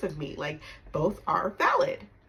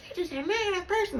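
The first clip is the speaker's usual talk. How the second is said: higher, mocking mom voice; mom's accusation; 12 semitones higher, faster than usual. Daughter mimicking mom's put-down, mocking high voice. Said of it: "she's like".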